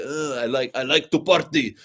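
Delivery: lampoon the Shah as a spoiled party-loving ruler; mock decadent Shah. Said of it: "The Shah was a bit of a, like".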